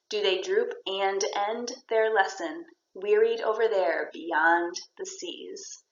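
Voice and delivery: slow, deliberate verse reading; poem reading. Shown as a demonstration. Teacher reading to show repeated sounds, slow deliberate verse. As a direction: read the line slowly so its sounds ring out. Reads poem lines aloud.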